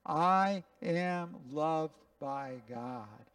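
slow, deliberate, each word weighed; slow recitation together. Shown as a demonstration. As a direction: repeat it slowly with everyone. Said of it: "Can you say it with me?".

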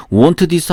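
"want this" with teu after wan; extra 으 in want. Shown as a demonstration. Teacher shows learners the error, "want this" with an added vowel. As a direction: say "want this" Korean-style, wan-teu dis. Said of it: "으 발음이 영어에 없습니다".

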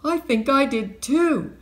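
high, loud, frightened quiver; quivery voice. A narrator's reading. Max to his partner after the picture yelled, quivery. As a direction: answer in a rattled, high-pitched quaver. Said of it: "said Max in a quivery voice".

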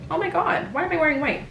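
high, startled Oh my God; suddenly noticing a stain risk; shocked realization. Real, not acted. Surprised at own outfit.

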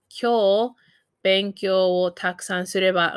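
careful teaching repeat; broken into chunks. Shown as a demonstration. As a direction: pause after "Kyou", then "benkyou wo takusan sureba". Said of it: "I might say".

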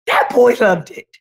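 ordinary delivery

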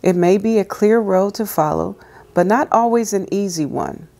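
calm, measured reading aloud; devotional reading. Acted. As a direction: read it gently like a devotional.

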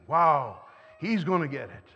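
a loud burst of mock anger; angry inner thought. Angry churchgoer plotting against his friend, loud mock anger. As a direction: fume at the friend who ignored you.

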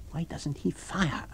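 slow, tense whisper to himself. Acted. Kemp watches from the window, whispering. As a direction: breathe it out unvoiced. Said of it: "whispered Kemp to himself".

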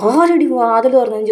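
demanding who opened the door; retold angry demand. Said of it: "ദേഷ്യത്തിൽ".

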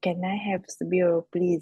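whispered "Can I have the bill", no voice; đọc thì thầm. Real, not acted. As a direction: practise the line under the breath.

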